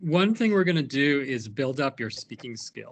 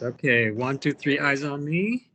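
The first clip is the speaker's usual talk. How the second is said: classroom call-out. Shown as a demonstration. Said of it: "it does work online too".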